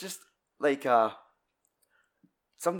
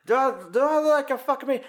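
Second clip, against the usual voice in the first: put-on bratty kid; 12 semitones higher, 5 dB louder, faster than usual. Retelling kid astronomer's tantrum.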